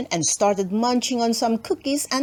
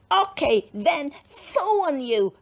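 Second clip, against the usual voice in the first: rude huff; 3 semitones higher than usual. Acted. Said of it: "She had terrible manners".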